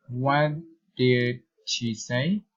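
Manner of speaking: careful question lifting on "say"; word-by-word, ending upward on "say"; rising intonation. Shown as a demonstration. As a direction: let "say" rise at the end. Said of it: "reason, intonation".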